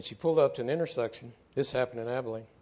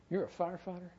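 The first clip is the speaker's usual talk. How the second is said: a sharp, higher "firefighter?" in disbelief; retelling her sudden surprised cut-in, pitched up; startled question; 6 semitones higher, 5 dB quieter than usual. Retold or imitated. Angry mother interrupting the mechanic, caught off guard, surprised.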